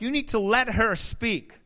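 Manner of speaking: high, loud insistent counselor; imitated counselor. Counselor telling husband to let wife talk, insistent imitation. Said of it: "he's like".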